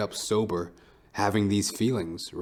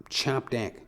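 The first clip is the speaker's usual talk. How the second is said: ordinary talk, nothing marked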